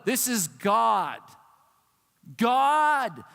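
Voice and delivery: drawn-out, booming preacher's emphasis; big preaching shout on the name; emphatic proclamation. Real, not acted. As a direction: proclaim it slowly and hit GOD hard. Preacher proclaims who is speaking.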